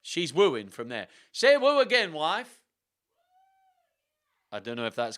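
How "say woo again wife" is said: loud, high call to the wife; raised voice, pitched way up. Real, not acted. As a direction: shout playfully across the house. Calls out to wife off mic.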